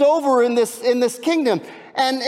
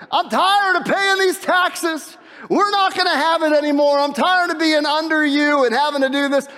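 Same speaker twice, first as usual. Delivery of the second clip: fed-up king; 5 semitones higher than usual. Acted. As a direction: drag out each word, fed up and defiant. King of Moab voiced, fed up.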